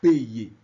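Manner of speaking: "payer" said low and loud, the Y sounded as the y in "yes"; firm teacher model of "payer"; French demo word. Shown as a demonstration. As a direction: model "payer" with the Y glide clearly. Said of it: "E esse é".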